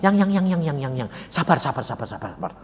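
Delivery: soft, fading, repeated soothing plea; imitating gentle wife. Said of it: "Istri saya yang lembut biasa gini". (menirukan istri lembut menenangkan)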